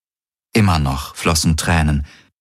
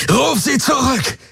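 high-pitched furious roar; enraged, high yell; roared command. A narrator's reading. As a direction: bellow the order at full force. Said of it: "brüllte er".

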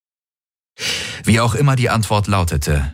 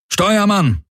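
high, ringing call to the helmsman; 14 semitones higher than usual. Acted. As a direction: summon the helmsman across the bridge. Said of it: "rief der Feldherr".

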